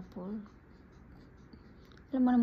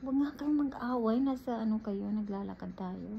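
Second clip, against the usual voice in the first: put-on scolding the kids; 2 semitones higher than usual. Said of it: "Tapos sabi ko".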